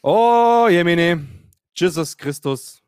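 hammed-up dread that trails off; theatrical panic sinking into resignation; mock despair. Dreading Hermes delivery, inner voice.

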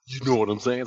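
put-on playful Bay Area accent in the style of a Bay Area rapper. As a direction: lightly slip into a Bay Area rapper-style West Coast accent. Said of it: "rapper thing going on when you talk".

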